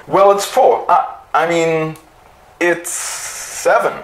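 high, odd mechanical voice with a slow stall; a robot catching itself mid-error; machine voice. A narrator's reading. The machine answering two and two, high strange voice.

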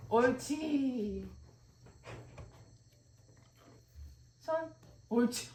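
stretched-out paw command with praise; commanding a dog. Real, not acted. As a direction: coax the dog, slow and sing-song. Training dog to give paw. (강아지에게 손 시키는)

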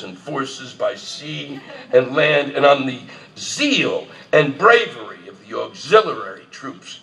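mock royal address, read grandly; formal speech reading. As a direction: declaim it like a king before Parliament. Reading King George III speech aloud.

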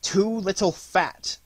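slow, faint stammer of a sick king; a dying king stammering out his complaint; feeble stammer. Acted. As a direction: barely get the words out. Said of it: "and stammered, scarce audibly".

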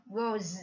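goes ending in a buzzed "z"; final Z sound. Shown as a demonstration. Teacher shows the ending sound, goes with final "z". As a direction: say goes with a voiced "z" at the end. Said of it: "là âm giờ".

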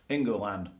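England stretched to Ingerland; mock pronunciation of England. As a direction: add a middle syllable to England. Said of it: "as the Americans say".

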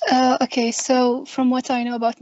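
speaking up to be heard. Real, not acted. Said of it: "raise your voice".

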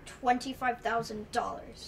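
slow, fully voiced repeat; speaking up. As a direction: say the amount out loud, slowly and clearly.

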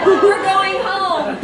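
loud, slow, broken by laughter; laughing through it. Real, not acted. Reader carrying the girl home, laughing loudly. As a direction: try to stay heroic but crack up. Heroic line dissolving into laughter.

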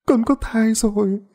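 put-on high, trembling girl's confession; tearful daughter. A narrator's reading. Mỹ confesses pregnancy to mother, high and tearful. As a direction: admit it in a small frightened voice.

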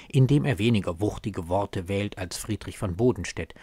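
ordinary talk, nothing marked

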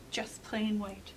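hushed whisper, slow and tense. A narrator's reading. Narrator hushing the kids during the tense search, whispering. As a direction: breathe it so as not to wake anything. Peeking into drawer.

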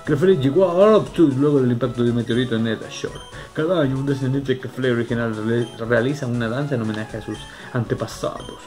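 reading aloud. Acted. Reads book text aloud.

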